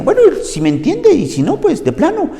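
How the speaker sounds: careless reading. Shown as a demonstration. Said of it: "yo aprendí a leer así".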